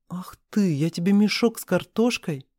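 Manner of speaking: plain reading voice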